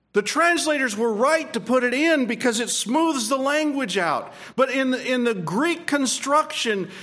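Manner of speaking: fervent pulpit delivery; preaching. Acted. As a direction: proclaim it to the congregation. Preaching to the congregation.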